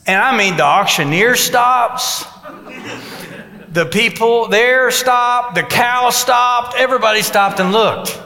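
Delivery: milk the moment, every word landing. Real, not acted. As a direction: stretch each stop like time froze. Dramatic pause at auction scene.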